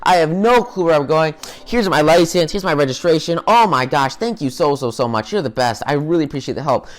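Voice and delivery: super excited lady. Retold or imitated. Lady thanking the cop who pulled her over, gushing. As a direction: gush like a thrilled lost driver. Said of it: "this lady is super, super excited, super happy".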